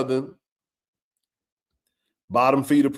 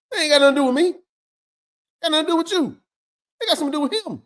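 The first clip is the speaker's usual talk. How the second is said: rising emphasis; 10 semitones higher, much faster than usual. Real, not acted. Emphatic point, building.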